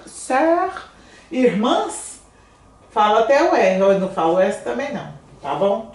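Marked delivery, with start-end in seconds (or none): 0.0-0.7 "sœur" with the rounded eu sound. Shown as a demonstration. Teacher models the vowel in "sœur". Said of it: "vai fazer esse er".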